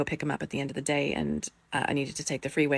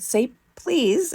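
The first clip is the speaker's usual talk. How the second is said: put-on high, raised instruction to a child; insistent parental order; retold urgent prompt; 9 semitones higher, 5 dB louder than usual. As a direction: press the child to add it. Urging son to pray properly.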